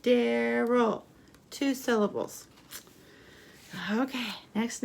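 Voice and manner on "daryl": Daryl in two measured beats; syllable by syllable. Shown as a demonstration. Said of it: "Count the syllables".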